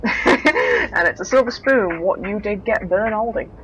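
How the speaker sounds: lightly put-on Cockney reading voice; theatrical storybook reading in mild Cockney; Cockney accent. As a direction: read it aloud with a hint of Cockney. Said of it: "reading this in a Cockney accent".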